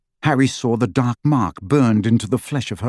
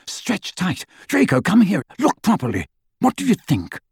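eager; 8 semitones higher than usual. Acted. Lucius voiced high and eager.

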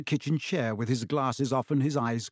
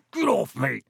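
gnome voice; 3 dB louder than usual. Acted. Gnome squeals while swung.

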